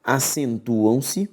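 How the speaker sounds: slow, spaced dictation of the rule; slow dictation for note-taking. Shown as a demonstration. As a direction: dictate it slowly so students can write. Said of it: "dictating the rule".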